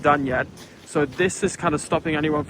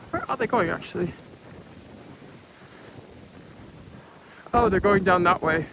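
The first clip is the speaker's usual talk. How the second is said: out of breath; 2 semitones higher, 5 dB quieter than usual. Real, not acted. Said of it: "I'm so out of breath".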